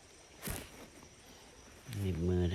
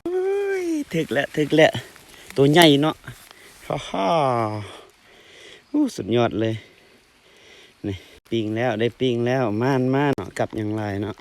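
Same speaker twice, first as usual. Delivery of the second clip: loud, real whoop at a catch; excited shouting; 3 semitones higher, 10 dB louder than usual. Real, not acted. Angler cheers on hooking a big fish, excited shouting. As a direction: cry out in triumph, much louder.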